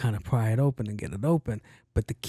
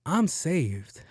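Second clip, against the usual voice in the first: relieved; 4 semitones higher than usual. Retold or imitated. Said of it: "I'm like".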